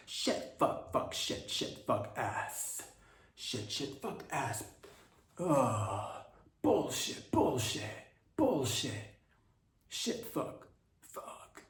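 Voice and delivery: breathy muttered string of curses; awkwardly rehearsing swear words under his breath; Gavin Newsom impression. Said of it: "this is my impression of Gavin Newsom".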